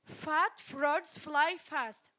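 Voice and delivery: slow, deliberate; slow model again. Shown as a demonstration. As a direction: lay out each word. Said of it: "I give you another tongue twister".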